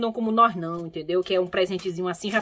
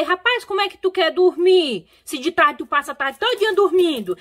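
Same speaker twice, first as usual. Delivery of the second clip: higher, louder mock telling-off; incredulous scolding; 7 semitones higher, 4 dB louder than usual. Telling the woman who naps all afternoon, incredulous scolding. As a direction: retell your own exasperated challenge.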